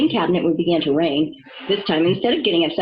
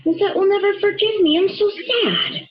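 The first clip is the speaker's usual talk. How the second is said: sad; 10 semitones higher than usual. Acted. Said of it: "a single tear rolled down".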